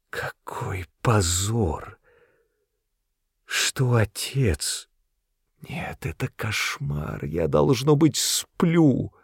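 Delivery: slow, soft, broken moan sinking to a whisper. A narrator's reading. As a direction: groan it out as if in a nightmare. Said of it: "простонала она".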